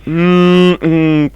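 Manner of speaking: high, strained effort cry; straining. Real, not acted. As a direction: push through heavy strain. Straining to push heavy safe.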